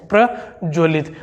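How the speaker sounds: प्रज्वलित said slowly, each syllable apart; slow careful spelling. Shown as a demonstration. Teacher slowly modelling प्रज्वलित for the class. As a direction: slowly drill प्रज्वलित as the correct form. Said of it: "ये शुद्ध शब्द है साथियों".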